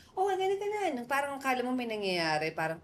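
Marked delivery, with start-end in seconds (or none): 0.1-0.9 mock shouting crowd. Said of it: "may mga nagsisigawan daw".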